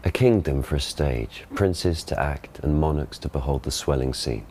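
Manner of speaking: modern received pronunciation Shakespeare. Shown as a demonstration. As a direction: classic stage RP reading. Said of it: "he gives the modern pronunciation".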